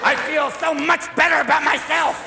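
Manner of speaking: high-pitched mock rehab testimony; reformed alcoholic. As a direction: proclaim it high, as a parody of recovery. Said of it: "there you are at Betty Ford Hospital going".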